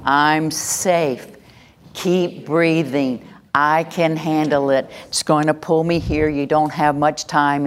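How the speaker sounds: slow, steady calming mantra; calm self-talk. Shown as a demonstration. Coach showing the class the calming phrase, slow and steady. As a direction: talk yourself down slowly. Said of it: "you're gonna say".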